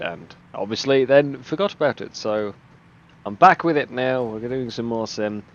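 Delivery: slightly wheezy from a cough. Real, not acted. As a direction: talk through a chesty cough. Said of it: "if I sound a bit wheezy".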